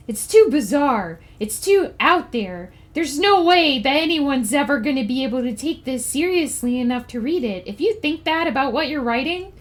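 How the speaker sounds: lightly put-on comic voice for a mock PSA; silly put-on voice. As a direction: ham up the announcement in a goofy voice. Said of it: "I'm gonna do it in this voice".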